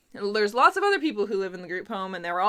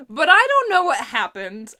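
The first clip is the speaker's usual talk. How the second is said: loud, high, laughing confession of cluelessness; laughing bewilderment; 5 semitones higher, 9 dB louder than usual. Real, not acted. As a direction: protest loudly through laughter. Laughing admission of being lost.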